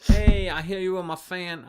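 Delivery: loud, high Cockney greeting; the singer's British accent. Acted. Singer surprising a fan at the door, mock British accent. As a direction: put on a hammed-up Cockney voice. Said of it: "gonna do my best Ren British accent".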